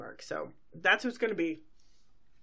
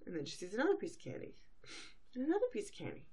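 chicken-brained Pinkie voice; 5 semitones higher, 7 dB quieter, faster than usual. Retold or imitated. Retelling Pinkie spotting candy.

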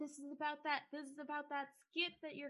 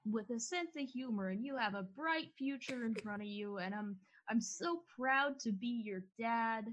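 mean every word like a proud father; a father telling his son he's proud; heartfelt dad; 4 dB louder than usual. Acted. Dad's heartfelt speech to son.

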